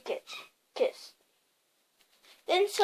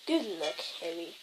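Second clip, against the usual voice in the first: low, soft murmur; 10 semitones lower, 8 dB quieter than usual. A narrator's reading. Dumbledore bids baby Harry farewell, soft murmur. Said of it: "he murmured".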